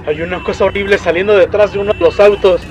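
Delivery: terrified. Acted. Father describing the creature at the glass to his child, terrified. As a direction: report it in mounting horror.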